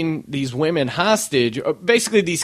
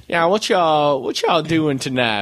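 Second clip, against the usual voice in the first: mock Black Cajun accent; 11 semitones higher than usual. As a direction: imitate Seagal putting on a Black New Orleans accent. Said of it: "he really did pick up the black accent".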